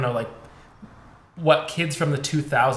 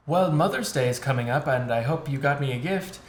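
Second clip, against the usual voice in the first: mock stilted mother-to-son line; lightly hammed-up scripted delivery. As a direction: imitate a forced, rehearsed exchange. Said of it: "such a scripted back and forth".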